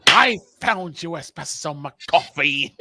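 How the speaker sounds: lightly voiced cartoon villain; a hint of a sneering supervillain; mustache twirling villain. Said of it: "he's twirling the mustache".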